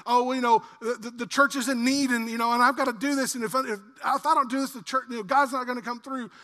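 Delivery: acted fretting under compulsion; mildly harried, stumbling excuse; pressured giver. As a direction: stammer through it as if pressured. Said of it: "don't give under compulsion like".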